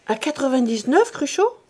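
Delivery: sudden high disbelief, greed waking; startled question. Acted. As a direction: voice jumps high on Cruchot. Grandet startled by the rente price.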